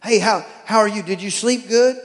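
cheery pet-talk voice; talking to the dog. Retold or imitated. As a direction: chat up the dog like a baby. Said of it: "conversation like the dogs won't talk".

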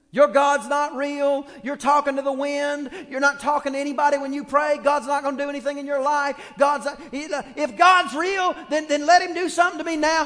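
loud mocking giant's taunt; Goliath taunting. Preacher voicing Goliath, loud taunting jeer. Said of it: "He's yelling all that stuff".

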